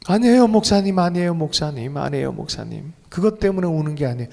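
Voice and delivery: retold tearful protest to a pastor; 울먹이는 형제 흉내. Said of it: "왜 이렇게 울어요". (살짝 울먹이며 부인하는 흉내)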